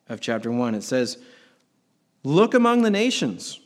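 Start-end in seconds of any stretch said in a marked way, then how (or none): 2.3-3.6 high and loud, like God calling out; booming God voice. Acted. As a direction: proclaim it from above, louder and higher. Preacher voices God reading scripture.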